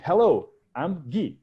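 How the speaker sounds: slow posh British English greeting. Retold or imitated. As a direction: introduce yourself in British English, slowly. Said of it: "aquele meu inglês britânico". (em inglês britânico, devagar)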